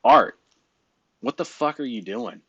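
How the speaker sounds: name barked loud, then a half-mock demand; blunt toast opener. Shown as a demonstration. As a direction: call him out by name, hard. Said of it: "It might sound something more like".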